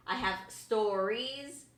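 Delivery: STORIES slowly drawn out; slow, weighty emphasis on STORIES; capitalized STORIES. Retold or imitated. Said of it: "She capitalized stories".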